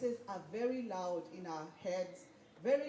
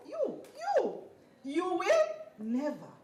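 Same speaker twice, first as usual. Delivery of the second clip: high, louder mock of a naysayer; 7 semitones higher, 6 dB louder than usual. Speaker imitates naysayer crushing dreams, mock scornful. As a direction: jeer like a dream killer, lightly. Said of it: "they say".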